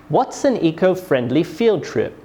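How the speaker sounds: "What's" strong, "field trip" falling; falling question intonation. Shown as a demonstration. Teacher demonstrates a W H question, falling tone on "field trip". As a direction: start firmly on "What's", drop on "field trip". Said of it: "We use falling intonation at the end".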